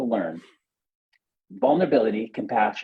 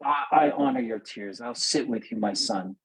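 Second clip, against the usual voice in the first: tender. Retold or imitated. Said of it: "Just by saying".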